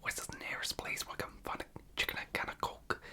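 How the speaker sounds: whispered imitation of a Scouse street question; Scouse accent. Imitating a YouTuber asking strangers in Liverpool, Scouse accent. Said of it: "in a Scouse accent".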